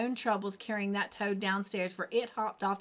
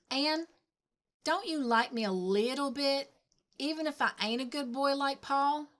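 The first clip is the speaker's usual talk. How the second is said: put-on pleading little boy; 5 semitones higher than usual. Davy asks to be liked.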